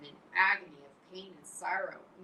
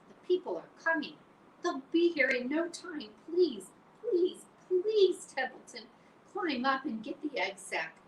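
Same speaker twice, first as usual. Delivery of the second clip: higher, louder frantic pleading; desperate begging; 10 semitones higher, 7 dB louder than usual. Acted. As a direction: beg as time runs out. Wilbur begging Templeton urgently.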